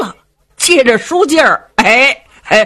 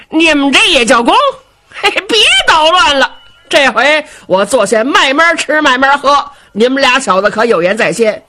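Xiong gloating; 4 semitones higher than usual. Acted. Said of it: "我说".

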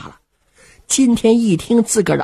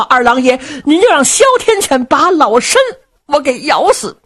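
put-on high, breathless frightened old mistress; a flustered noblewoman near tears; panicked old lady; 5 semitones higher than usual. Old mother asks servants how to plead, panicked high voice.

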